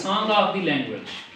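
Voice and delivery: every word drawn out for students to write; spelling it out word by word for the class; slow dictation. Shown as a demonstration. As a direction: dictate it very slowly.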